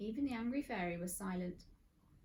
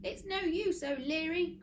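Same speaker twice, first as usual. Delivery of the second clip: high, loud villain's cry; gleeful cry; 9 semitones higher, 7 dB louder than usual. Acted. Mister Gum crowing at Friday, loud and high. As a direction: crow it out like an evil cackler. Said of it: "cried Mister Gum".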